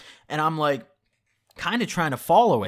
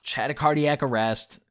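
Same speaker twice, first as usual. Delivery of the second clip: imitating a friend's casual shrug; unbothered buddy impression, easing off at the end; retold nonchalance. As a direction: deliver it offhand, as if nothing happened. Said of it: "he said it no nonchalantly".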